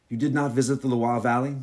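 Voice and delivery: put-on hostess asking in a light French accent. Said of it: "this is my French accent".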